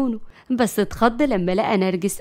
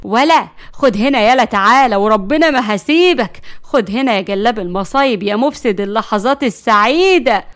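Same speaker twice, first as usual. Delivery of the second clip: louder, calling him back to be hit; angry yelling; 6 dB louder than usual. Acted. Narges yelling after her fleeing brother, loud. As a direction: shout after him as he runs.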